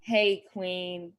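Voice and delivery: lightly voiced First Lady impression; measured delivery with pauses between phrases; Michelle Obama. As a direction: play an understated, unhurried impression. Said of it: "Give me your Michelle Obama impression".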